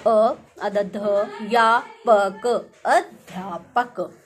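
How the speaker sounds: अध्यापक broken into letters, loud, then said slowly; spelling out letter by letter. Shown as a demonstration. Teacher spelling the correct word for pupils, loud and slow. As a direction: sound out अध्यापक piece by piece. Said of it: "इसकी शुद्ध वर्तनी क्या होगी".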